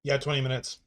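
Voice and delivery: talking around a spoon; spoon in mouth. Real, not acted. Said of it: "Spoon in my mouth".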